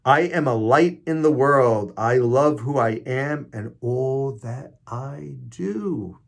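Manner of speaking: emphatic, drawn-out affirmation; affirmation reading. Acted. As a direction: proclaim it slowly like a prayer.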